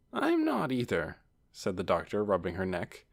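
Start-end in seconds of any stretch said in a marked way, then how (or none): 0.1-1.2 protesting aunt. A narrator's reading. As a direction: scold a nephew from inside his hug. Aunt contradicts her nephew.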